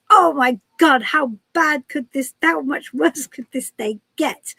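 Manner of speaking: loud, mock-exasperated outburst; exasperated Santa. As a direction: act out mild despair at a disastrous day. Santa's mishaps pile up in joke.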